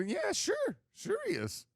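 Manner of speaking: high-pitched sarcastic reassurance; mock placating. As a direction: play along, clearly not buying it. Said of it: "definition of placation right there".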